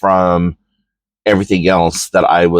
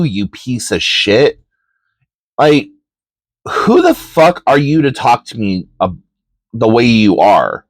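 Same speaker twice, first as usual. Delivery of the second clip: raised, heated retelling of a rant at a bully; retold telling-off. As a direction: lay into him like you're back in that classroom.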